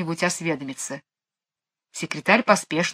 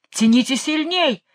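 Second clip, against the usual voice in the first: thundering command; 7 semitones higher than usual. A narrator's reading. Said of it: "загремел король".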